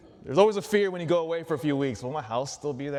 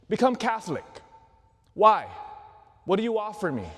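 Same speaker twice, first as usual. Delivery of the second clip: mock sales pitch; 5 semitones higher than usual. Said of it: "Imagine this sales pitch".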